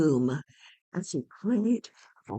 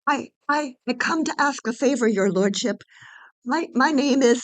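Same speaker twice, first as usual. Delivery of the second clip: higher, louder, stumbling pleading; nervous stammer; 5 semitones higher, 6 dB louder than usual. Acted. Orpheus stammers his request to Hades, afraid. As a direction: trip over the words, scared.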